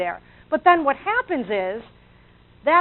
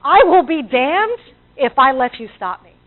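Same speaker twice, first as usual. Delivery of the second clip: defiant; 6 dB louder than usual. Retold or imitated. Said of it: "successful people say".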